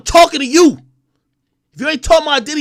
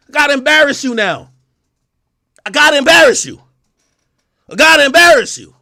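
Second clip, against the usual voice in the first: gets louder with each repeat; building threat; 3 dB louder than usual. Real, not acted. Warning the rapper, a threat that builds louder. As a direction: repeat it, pushing harder each time.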